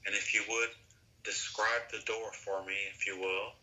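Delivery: calm, unhurried hypnosis guide voice; guided visualization. Acted. Guide asks client to picture a door, calm guided visualization. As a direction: gently lead into the imagined scene, with pauses.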